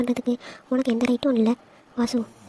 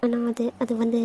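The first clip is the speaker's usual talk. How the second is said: hesitant stalling. Acted. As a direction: stall shyly over the words. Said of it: "இழுக்காதடி".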